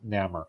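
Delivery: Namor said as NAMM-er; own pronunciation. Shown as a demonstration. Speaker shows friends how they always say it, casual short-A Namor. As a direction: rhyme Namor with "hammer". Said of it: "that's how I always pronounce".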